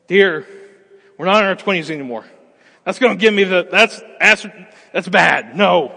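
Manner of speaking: loud, fast, fussing refusal; exasperated wife. Acted. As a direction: shoot it down like a weary wife. Wife rejecting fast food.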